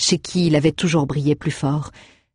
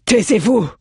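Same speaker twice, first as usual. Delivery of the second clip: loud, much higher shout; exclaiming; 6 semitones higher, 4 dB louder than usual. A narrator's reading. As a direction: snap the order across the room. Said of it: "S'exclama Enon".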